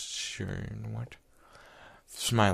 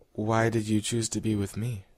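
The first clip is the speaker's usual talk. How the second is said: higher, louder curious question; 5 semitones higher, 4 dB louder than usual. Acted. Fangirl asks why he chose her, questioning. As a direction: ask it in a raised dialogue voice.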